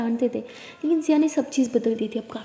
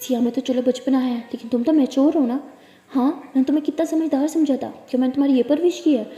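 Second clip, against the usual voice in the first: scolding; 3 dB louder than usual. Acted. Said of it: "तारा को बहुत डांटती है".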